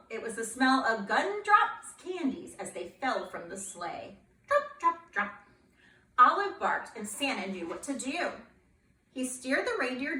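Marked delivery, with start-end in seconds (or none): 4.5-5.3 dropping sounds. Acted. Candies falling from sleigh.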